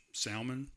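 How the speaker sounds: salmon with the L sounded, SAL-mun; salmon as in "Sal" plus "mun"; Jenna's pronunciation. Retold or imitated. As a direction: pronounce the L in salmon. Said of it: "that's the way that Jenna said the word".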